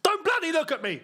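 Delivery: mock crying fan. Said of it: "you'd be crying and going".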